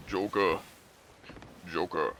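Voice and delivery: hint of a gruff superhero voice; lightly voiced caped crusader; Batman. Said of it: "Could you do a Batman impression?".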